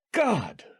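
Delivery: sudden high cry of terror; screamed. A narrator's reading. Husband waking from a nightmare, screaming in fear. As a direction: scream out in panic. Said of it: "he screamed".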